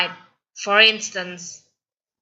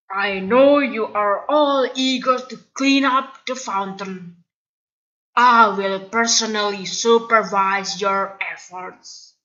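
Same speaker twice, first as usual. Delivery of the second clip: suspicious headmaster sweet-talking; sly principal. Acted.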